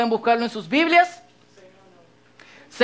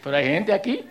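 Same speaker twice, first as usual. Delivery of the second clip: hushed secretive call; gossip whisper; 7 semitones lower, 5 dB quieter than usual. Retold or imitated. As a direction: beckon them close, quietly. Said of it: "Tono de chisme".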